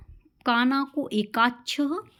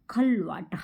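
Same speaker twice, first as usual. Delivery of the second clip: whispered answer; 2 semitones lower, slower than usual. Acted. Teacher whispers the answer word to students.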